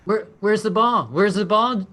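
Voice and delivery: high, loud excited dog talk; squeaky praising a dog. Acted. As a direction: cheer the pup on to fetch. Playing with the dog player.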